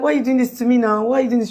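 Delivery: retold wife protesting; pleading protest. Retelling burnt wife's protest to husband.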